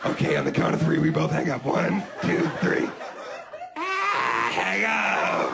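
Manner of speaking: giggly couple's you-hang-up banter; giggly late night call. Pretend. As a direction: play a flirty lovers' phone goodbye. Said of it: "giggly late night call".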